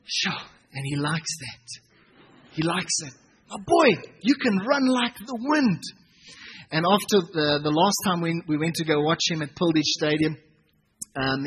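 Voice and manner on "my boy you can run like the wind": encouraging son. Retold or imitated. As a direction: tell him gently he can fly. Father encouraging son again.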